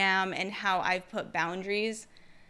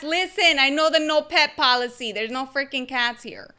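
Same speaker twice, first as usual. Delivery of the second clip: retold loud reply; 3 semitones higher, 8 dB louder than usual. Her retold reply to neighbors.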